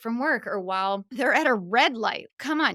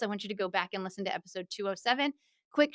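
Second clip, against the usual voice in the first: ordinary delivery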